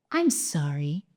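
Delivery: low, quiet and cold; icy. Acted. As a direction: chill every word of I'm sorry. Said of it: "her voice icy".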